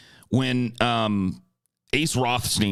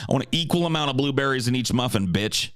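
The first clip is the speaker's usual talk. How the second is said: Ace Rothstein; 3 semitones higher, faster than usual. Retold or imitated. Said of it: "Ace Rothstein's blueberry muffin".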